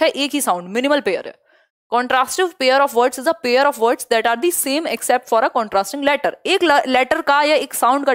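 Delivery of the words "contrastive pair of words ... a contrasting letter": very slow, word by word dictation. Shown as a demonstration. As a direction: dictate each word slowly to the class. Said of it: "teacher dictates definition". (धीमे-धीमे लिखवाना)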